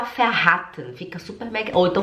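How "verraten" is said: verraten with a short, hurried A; too quick verraten. Shown as a demonstration. Teacher warns learners against this form, quick short-vowel verraten. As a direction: rush verraten, cutting the A short. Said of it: "Você não pode falar".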